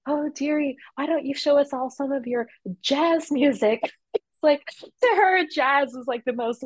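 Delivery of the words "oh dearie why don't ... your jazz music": put-on old lady voice.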